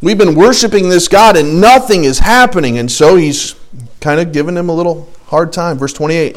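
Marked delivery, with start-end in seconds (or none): 0.0-2.8 lightly voiced complaining child, rising in pitch; mild mock-kid grumbling in a repeating up-and-down tune; bored kids. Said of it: "These little kids probably now are running around".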